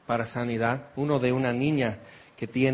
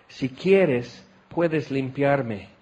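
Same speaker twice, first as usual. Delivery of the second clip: slow humble plea; 2 semitones lower, much slower than usual. Acted. Leper's plea repeated slowly.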